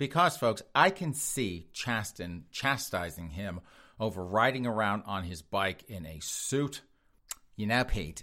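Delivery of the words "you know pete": put-on sassy voice. Imagining a spouse scolding Pete over his bike ride: Chasten voice. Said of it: "that is my Chasten voice".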